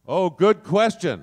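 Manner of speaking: projecting loud and slow to fill the room; loud unmiked voice. Shown as a demonstration. Actor on a panel showing how loud he gets, projecting without the mic.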